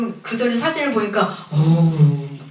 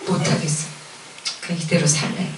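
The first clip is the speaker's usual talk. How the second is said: weary prayer; 4 dB quieter than usual. Retold or imitated. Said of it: "앉아서 그랬어요".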